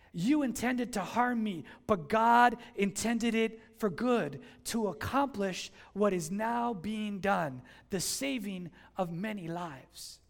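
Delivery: slow, weighty reading; scripture reading. Acted. Preacher reading Joseph's words to the church, slow. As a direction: read it slowly, with weight.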